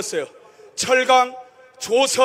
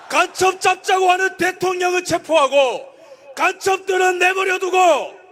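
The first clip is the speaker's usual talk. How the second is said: fiery political rally speech; roaring rallying speech; 3 semitones higher than usual. Acted. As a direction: shout it to the crowd. Rally chant lead.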